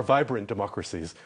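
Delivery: "vibrant" said with deliberate emphasis; stress on vibrant. Real, not acted. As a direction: punch the word "vibrant". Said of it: "with the emphasis on the word vibrant".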